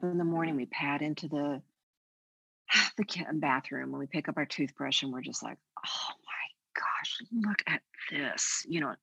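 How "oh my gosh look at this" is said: whispered, slow dismay. Retold or imitated. A woman looking in the morning mirror, whispered dismay.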